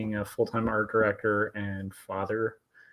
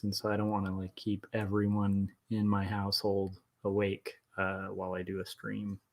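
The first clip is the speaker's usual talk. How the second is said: softer, so nobody in the house wakes; keeping voice down; 5 dB quieter than usual. Real, not acted. Artist streaming at night not waking household, hushed. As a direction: rein in a loud voice, softly. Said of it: "I have a pretty loud voice".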